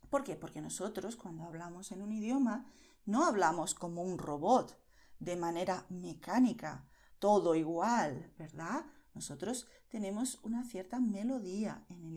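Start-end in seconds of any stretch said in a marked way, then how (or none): 4.0-8.3 loud, deliberate and low; heavy, even, robot-like stress; mechanical emphasis. Shown as a demonstration. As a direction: punch out each phrase like a machine. Mimics robotic even speech.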